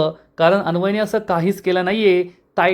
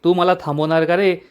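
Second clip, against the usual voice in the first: understated angry warning; lightly voiced annoyed inspector; mildly irritated threat. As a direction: warn him off with a touch of temper. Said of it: "inspector चिडून म्हणतो".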